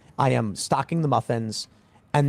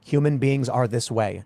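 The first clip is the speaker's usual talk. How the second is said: slow explanation; slower than usual. Retold or imitated. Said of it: "I'm simply gonna say to 'em".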